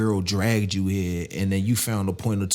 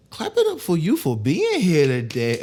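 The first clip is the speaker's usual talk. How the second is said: louder, higher hype-up call; hyped announcer; 7 semitones higher, 4 dB louder than usual. Shown as a demonstration. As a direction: pump the crowd up. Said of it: "You clapped a little early".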